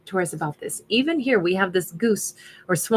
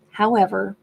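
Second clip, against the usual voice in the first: hoarse. Real, not acted. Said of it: "I'm losing my voice now".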